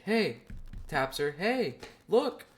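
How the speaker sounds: high, light nudging voice; imitating aunt. Imitating his aunt nudging his mom, high. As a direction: mimic the aunt's hushed poke. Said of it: "She's like".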